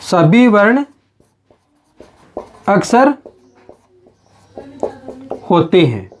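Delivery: each word set apart by long pauses; spaced-out teacher dictation; slow dictation. Shown as a demonstration. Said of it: "समझिए दोस्तों इस बात को".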